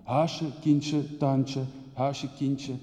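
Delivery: rushed, breathless stream of words, fading to a hush at the end; poetic outpouring. Acted. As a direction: pour it all out like a fevered poem. Dichterlijke woordenstroom na "uit mijn hart. (opgejaagde, dichterlijke woordenstroom die wegsterft)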